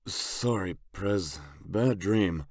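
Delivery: mild, apologetic character voice; sheepish apology. A narrator's reading. Toole apologizing to his boss after waking, sheepish.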